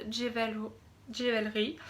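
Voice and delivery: "Jewel-, Jewelry" said with a French accent, restarted; brand name "Jewelry" in French-accented English. Real, not acted. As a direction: say "Jewelry" the French way, stumbling once. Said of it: "Excusez-moi pour mon accent".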